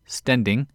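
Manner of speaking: "stending", standing with an E for the A; A turned to E. Shown as a demonstration. Podcast host showing lazily transformed Australian vowels, A as E. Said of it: "especially A's to E's".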